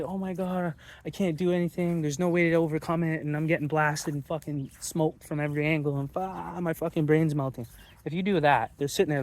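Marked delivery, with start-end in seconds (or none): 0.0-7.7 higher, helpless mock whining; mock defeated whine. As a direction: whine like a beaten-down victim, half-hammed. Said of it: "You can't be like".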